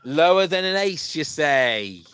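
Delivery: hammed-up host playing to an audience; game show host. Host repeating a player's card choice, hammed-up quizmaster call.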